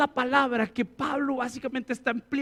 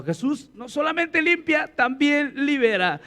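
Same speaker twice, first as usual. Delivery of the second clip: louder repeat; 2 semitones higher, 4 dB louder, slower than usual. Shown as a demonstration. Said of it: "Dile a la persona que está a tu lado".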